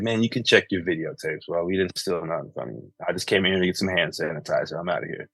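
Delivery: dad quietly telling off the store clerk; quiet brush-off. Retold or imitated. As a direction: say it under your breath and walk away.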